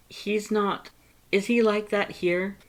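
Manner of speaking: high, anxious probing; fretting over his brother; worried Papyrus. Acted.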